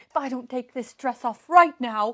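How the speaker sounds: dramatic. Retold or imitated. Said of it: "she's being so dramatic about".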